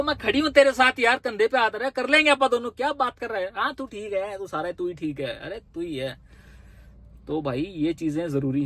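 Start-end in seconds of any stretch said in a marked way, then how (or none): 0.0-6.2 pampering reassurance. Retold or imitated. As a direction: coax an angry partner, gently fading. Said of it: "तू pamper तो कर".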